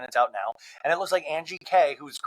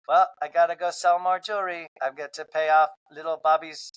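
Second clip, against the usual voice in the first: Whitney the seller; 2 semitones higher than usual. Retold or imitated. Whitney excuses herself from the fight in a put-on sales voice. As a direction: play the busy hostess hawking jewelry. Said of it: "And Whitney's like".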